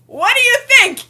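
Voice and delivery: high, loud mock orc taunt; menacing orc. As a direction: loom over them and taunt loudly. Orc voice in retold story.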